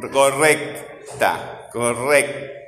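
"co-rrec-ta" very slowly, broken into syllables; drawn-out, segmented "correcta". Shown as a demonstration. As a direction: separate each syllable of correcta. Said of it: "Cómo separamos en sílabas".

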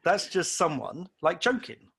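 a lightly voiced self shrugging off a prank; mock dismissive. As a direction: brush it off as a joke, slowly. Dismissing the message as a joke.

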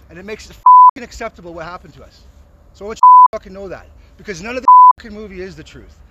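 furious shouted accusation; real angry yell; angry shouting. Real, not acted. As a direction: yell it at the filmmakers in rage. Angry protester confronting filmmakers.

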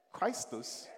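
Roman accent. Shown as a demonstration. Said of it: "that's my Roman accent".

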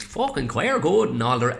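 lightly mimicked Wexford accent; thick Wexford accent. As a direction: give it a touch of broad Wexford. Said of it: "he speaks with a thick Wexford accent".

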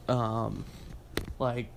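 talking mid-sip of water; words muffled by a sip; while sipping a drink. Real, not acted. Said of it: "sorry, I'm drinking water".

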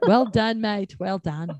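playful go at an Australian accent; practised Australian twang, played for fun. Shown as a demonstration. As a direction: try on an Aussie accent. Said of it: "Working on my Australian accent".

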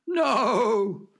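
high startled yell. Acted. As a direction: yell it in sudden alarm. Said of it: "yelled Horatio".

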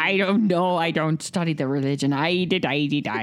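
slipping into a hint of Irish; Irish accent. Real, not acted. Friend protesting about studying religion, accidental Irish accent. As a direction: answer with an accidental Irish lilt. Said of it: "Why'd you get so Irish".

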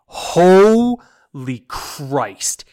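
loud, drawn-out cry of disbelief; appalled outburst. Real, not acted. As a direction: stretch the first word out in horrified exasperation. Ranting about awful voice acting.

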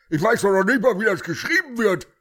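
laughing. Acted. Laughing line.

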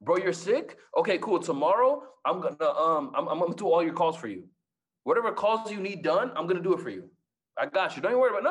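high, loud eager offer to help; over-eager, pushing help on him. Retold or imitated. Eagerly offering to cover calls.

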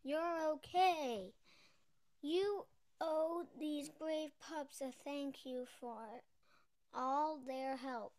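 loud, slow, joyful call; excited call. Acted. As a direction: call out with relief. Relieved girl calls out.

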